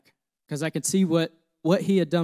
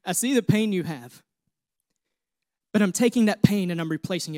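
God's voice; 4 semitones higher, 4 dB louder than usual. Retold or imitated. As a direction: voice of God building to a loud, higher climax. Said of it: "God said".

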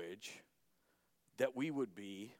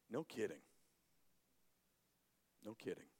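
rueful; 5 semitones lower, 11 dB quieter, faster than usual. Real, not acted. Soft rueful repetition.

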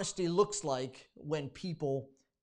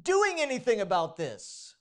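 raised, pleading, louder as it builds; desperate complaint to God; 7 semitones higher, 5 dB louder than usual. Pretend. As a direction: cry out why he isn't acting. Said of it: "Or you say".

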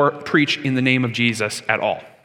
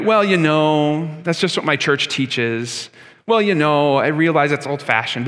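apologetic; slower than usual. Retold or imitated. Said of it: "we're, like, sorry that we believe".

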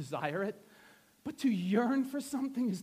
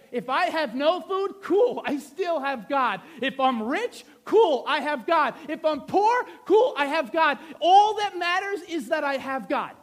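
raised, driving delivery with emphatic short answers; impassioned preaching; 5 semitones higher, 9 dB louder than usual. Acted. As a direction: voice the prophet's defiant faith. Preaches as the prophet speaking.

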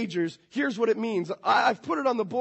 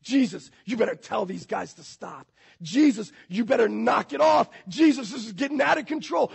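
mock scolding. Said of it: "the Pharisees were actually scolding Jesus".

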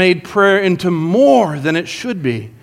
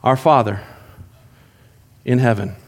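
reverent prayer; 7 semitones lower than usual. Shown as a demonstration. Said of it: "This then is how you should pray".

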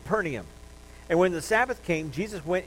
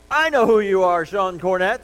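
loud, high shouted outburst; mock scream; 3 semitones higher, 11 dB louder than usual. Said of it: "screaming out in the middle of a church service".

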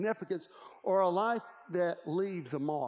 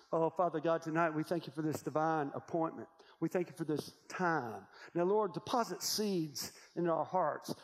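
closing prayer. Acted. Preacher leads a closing prayer.

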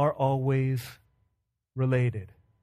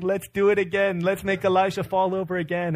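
higher, mildly excited child imitation; a hint of childish glee, pitched up; gleeful little girl; 5 semitones higher than usual. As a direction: lightly mimic a delighted kid begging for more. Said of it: "she's, like, laughing and laughing and laughing".

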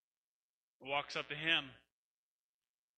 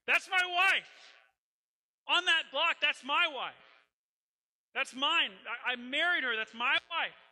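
much higher and louder, pleading cry; desperate outcry; 11 semitones higher, 7 dB louder than usual. Acted. Hosea cries out at auction.

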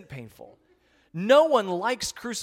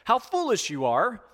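gentle rebuke; 4 semitones higher, 5 dB louder than usual. Retold or imitated. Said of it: "Jesus said to them".

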